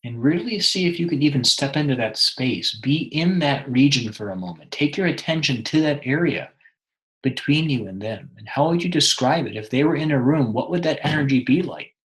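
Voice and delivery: measured meditation guide, long pauses between phrases; guided meditation. Acted. Meditation guide helping a listener connect with someone, guided meditation. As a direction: lead them inward, leaving room after each instruction.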